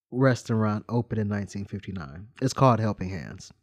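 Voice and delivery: steady informative reading voice; reading a bio. Acted. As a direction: read it like a short history segment. Reads a history bio aloud.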